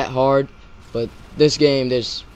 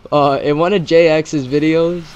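real laughter in the voice; tickled by a funny memory; amused, laughing; 3 semitones higher, 4 dB louder than usual. Real, not acted. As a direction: talk slowly through giggles. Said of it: "that part had me laughing".

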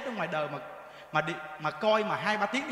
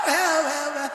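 mock dramatic wailing; 4 semitones higher than usual. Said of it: "nó chơi như ca vọng cổ mà".

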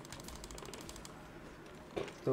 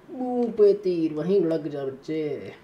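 gleeful taunt; 2 semitones higher, 4 dB louder, slower than usual. Real, not acted. Taunting enemy after arrow hit.

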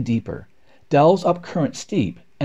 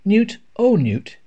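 high, slow, doting coo over a cute creature; a coot cooing in adoration; gushing emoting; 7 semitones higher than usual. A narrator's reading. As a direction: gush it out like a smitten bird. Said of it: "emoted the coot".

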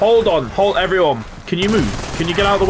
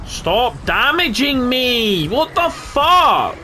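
frustrated yell; 7 semitones higher, slower than usual. Real, not acted. Taking damage, frustrated.

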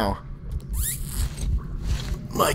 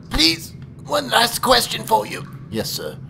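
mock pleading; 11 semitones higher than usual.

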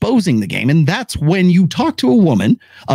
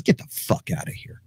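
mock dismissal; 9 dB quieter than usual. You know what she says.

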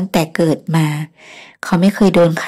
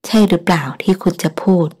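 mocking. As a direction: tease her with the words she won't say. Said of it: "เขาถามล้อเลียน".

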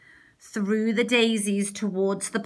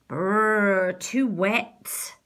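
small squeaky complaint; squeaking gingerbread man; much slower than usual. Acted. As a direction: squeak as the water reaches his feet. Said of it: "squeaked the gingerbread man".

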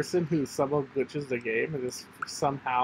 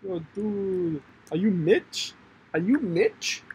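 excited; 5 semitones higher, slower than usual. Real, not acted. Excited recognition in game.

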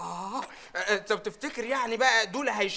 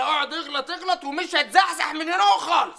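louder defiant shout; 5 semitones higher, 3 dB louder than usual. Acted. Worker refusing to leave his sit-in, defiant shout. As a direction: dig in and yell it.

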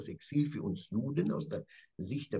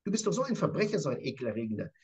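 open accusation; faster than usual. Acted. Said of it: "Er spricht das offen aus".

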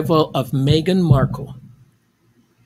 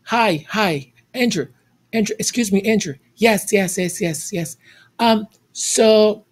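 bad acting; 3 semitones higher than usual. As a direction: overplay a desperate chancer begging for cash. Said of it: "Pardon my bad acting there".

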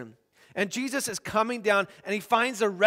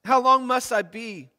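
exasperated rebuke; 5 semitones higher, 4 dB louder than usual. Acted. Jesus' harsh rebuke to father.

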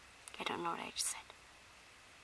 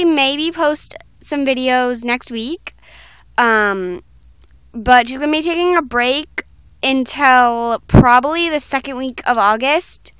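louder, excited pony character voice; 7 dB louder than usual. Pretend. Kid voicing Twilight to announce the break. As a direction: announce it brightly as another pony. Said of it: "I'm gonna go find Pinkie Pie".

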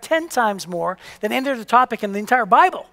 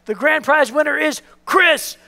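slow, raised announcer's build; prize announcer; 4 semitones higher, 4 dB louder, slower than usual. Retold or imitated. Host drawing the grand prize, imitated announcer call. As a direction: draw out the winner's name.

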